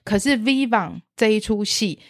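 normal talking voice

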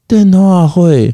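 put-on slow, drawn-out Taiwanese-accented 电话会; 台湾国语. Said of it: "你讲话台湾国语". (台湾国语口音慢慢说“电话会”)

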